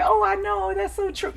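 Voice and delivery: interrupting listener. Retold or imitated. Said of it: "The listener is not interrupting and saying".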